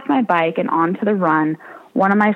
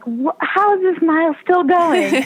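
higher-pitched mock exasperation; retelling, a lightly hammed-up exasperated whine; exasperated disbelief; 10 semitones higher than usual. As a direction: play up your own disbelief at the endless mile. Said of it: "I'm like".

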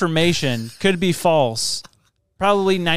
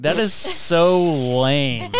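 laughing; much slower than usual. Retold or imitated. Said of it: "She's like".

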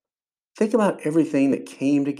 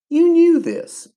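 very high, slow, stretched out in wonder; awed; 7 dB louder, slower than usual. Retold or imitated. Driving over, telling God he planned it all, awed and slow. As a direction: marvel at it out loud.

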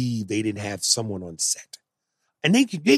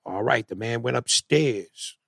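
put-on slow, dragged Jamaican accent; a stiff Jamaican accent; slow bad Jamaican accent; 2 semitones lower, 4 dB quieter, slower than usual. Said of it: "He goes".

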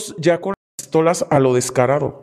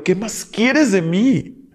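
retold cry to heaven; 6 semitones higher, slower than usual. Woman who lost faith demanding answers from God, mock cry to heaven. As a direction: reenact crying out at the sky, stretching the words. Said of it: "Yo gritaba al cielo".

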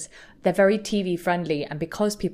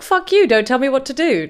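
angry retort; 6 semitones higher, 7 dB louder than usual. Retold or imitated. Imagined angry retort in argument.

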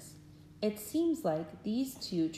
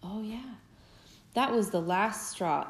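put-on lively storybook read-aloud for little kids; gentle, animated story reading; reading to children. A narrator's reading. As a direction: tell it like a bedtime picture book. Parent reads picture book aloud.

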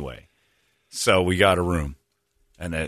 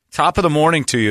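mock Irish accent; 6 semitones higher, 4 dB louder than usual. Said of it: "is something they don't say".

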